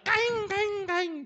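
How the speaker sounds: high yelping kaing; dog yelp imitation. Shown as a demonstration. Preacher imitates a stepped-on dog yelping high. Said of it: "niru suara".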